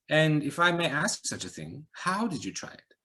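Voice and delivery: probing question with a hint of Eastern European accent; light Eastern European accent. A narrator's reading. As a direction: stranger gently sizing her up. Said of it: "slight accent, Eastern European".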